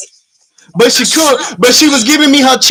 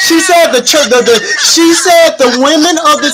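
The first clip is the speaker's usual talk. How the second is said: laughing disbelief; 4 semitones higher than usual. Real, not acted.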